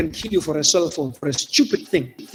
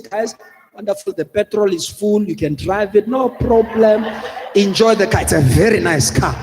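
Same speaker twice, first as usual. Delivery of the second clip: overly cheerful handover, louder toward the end; mock nicely; 3 dB louder than usual. Victim cheerfully giving the robbers the car, mock polite. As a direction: hand the car over with a laughing mock politeness. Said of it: "nicely say".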